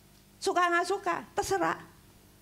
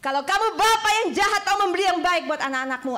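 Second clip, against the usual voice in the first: higher and louder, stressing bapa; preaching loud; 5 semitones higher, 6 dB louder, faster than usual. Acted. Preacher repeating the verse to the church, booming. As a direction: proclaim it to the back row.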